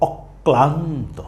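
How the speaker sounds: slow অক্লান্ত as অক-ক্লান্ত; অক্লান্ত drawn out with ক doubled. Shown as a demonstration. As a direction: hold the ক in অক্লান্ত. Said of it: "ক এর উচ্চারণটা দ্বিত্ব হবে".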